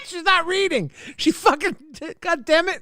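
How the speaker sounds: high squealing laugh. Real, not acted. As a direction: talk through giggles. Laughing at partner.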